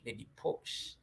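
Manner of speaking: breathy whispered repeat of the name; posh whisper. Pretend. Streamer savoring a viewer's refined name, whispered. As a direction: whisper it like a secret. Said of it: "something refined about the name".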